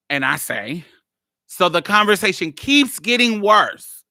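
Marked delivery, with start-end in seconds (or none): 1.5-4.0 laughing. Real, not acted. Laughing at absurd chat.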